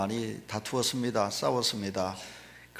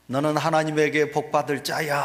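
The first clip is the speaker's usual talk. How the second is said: retold calling out; 3 semitones higher than usual. Mother showing her son what to shout, mild retold call. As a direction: call out a blessing, slightly raised. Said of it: "소리를 치라고 외쳤습니다".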